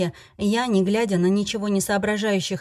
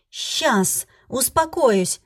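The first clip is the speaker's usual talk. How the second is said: slow, mock-calm fury, higher; fierce; 5 semitones higher, much slower than usual. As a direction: drag each word out through anger. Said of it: "кивнула свирепая". (медленно, со сдерживаемой яростью)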